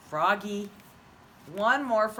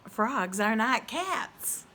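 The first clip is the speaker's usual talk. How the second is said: cat voice; 3 semitones higher, slower than usual. Acted. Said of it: "said the cat".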